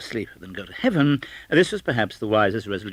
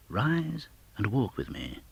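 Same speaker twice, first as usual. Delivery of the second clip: gentle spirit; 5 dB quieter, slower than usual. Acted. Spirit beckons Scrooge.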